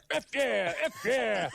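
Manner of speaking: loud, high macho taunt; game taunt voice. Retold or imitated. Gamer quoting a shooter taunt, loud and high. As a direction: bellow it like a cheesy game announcer.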